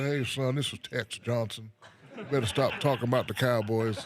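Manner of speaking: a hint of a Texan prank caller scolding someone; Tex Johnson, Texas accent. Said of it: "with my Tex Johnson voice".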